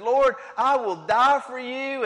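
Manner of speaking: Peter's vow. Acted. Peter vows loyalty, preacher acting.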